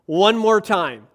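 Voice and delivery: Jesus spelling it out to the crowd; patient exasperation. Retold or imitated. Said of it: "And Jesus is like".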